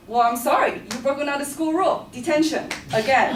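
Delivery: smug teacher. Retold or imitated. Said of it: "She's like".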